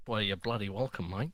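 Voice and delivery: lightly put-on Australian accent; a hint of Aussie mate. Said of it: "realised the accents".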